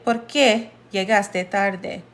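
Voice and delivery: "¿Por qué llegaste tarde?" slow and careful, clear Spanish vowels; slow Spanish reading. Shown as a demonstration. Teacher repeats the example for learners, slowly. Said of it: "So this one is".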